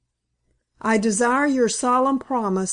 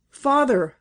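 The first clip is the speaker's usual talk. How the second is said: urgent cry; 4 semitones higher than usual. Acted. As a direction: call out to him fervently. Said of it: "I cried".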